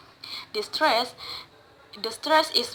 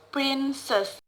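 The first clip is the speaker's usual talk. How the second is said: princess with PRIN stressed; stress on first syllable; 3 semitones higher than usual. Shown as a demonstration. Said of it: "word stress put in the first".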